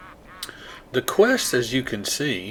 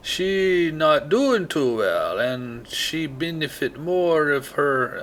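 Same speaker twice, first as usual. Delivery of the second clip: slow, drawn-out fake Jamaican; terrible Jamaican accent; 4 semitones higher, slower than usual. Shown as a demonstration. Player retrying the quest text, badly faked Jamaican accent. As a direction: stretch the words in a bad Jamaican lilt. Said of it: "That sounds terrible".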